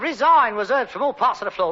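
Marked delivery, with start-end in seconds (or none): 0.0-0.5 a quick mock heckle, louder; hammed-up heckler; mock shout. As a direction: call out resign from the floor. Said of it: "shouts of".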